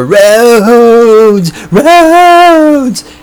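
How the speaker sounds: mocking screech. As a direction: screech "roads" like a shrieking caricature. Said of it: "making fun of how liberals screech".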